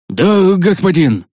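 slow, dragged-out obedient reply; a servant's reluctant yes, drawn out; put-on voice of obedient submission; submissive. A narrator's reading. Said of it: "покорно отозвался Ник".

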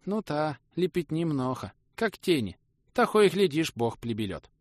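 high, lisping peasant; high lisping Nikodim, musing; Nikodim's voice. Acted. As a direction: pitch up and lisp the r's.

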